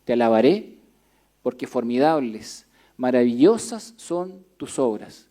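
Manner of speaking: solemn, measured psalm reading; scripture reading. Acted. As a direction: read the psalm to the congregation. Reads the psalm aloud.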